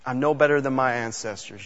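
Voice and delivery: a touch of self-pity, trailing down; moping. Retold or imitated. Preacher voicing Elijah begging God to take his life, softly moping. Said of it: "he starts moping".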